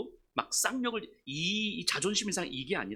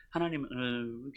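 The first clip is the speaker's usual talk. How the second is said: half-hearted, slurred praying; mushy mumbled prayer; 5 semitones lower, much slower than usual. Acted. Reluctantly praying for someone disliked, mumbled. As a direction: trail into an indistinct mumble. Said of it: "이렇게 흐물흐물 기도해요".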